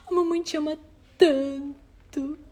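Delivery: high, syrupy mock mothering; oversentimental mother. Shown as a demonstration. Mother mocking a sentimental parent, syrupy. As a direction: ham up the gushy mom line. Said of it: "não fazer isso de um modo sentimental".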